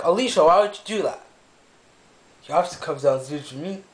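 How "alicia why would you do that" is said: retold exasperated scolding. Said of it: "I'm like".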